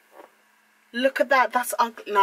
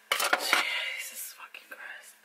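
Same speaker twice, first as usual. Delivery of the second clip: slow, stunned whisper; 8 dB quieter, much slower than usual. Real, not acted. Looking at her hair, whispering in disbelief. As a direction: drag it out under your breath.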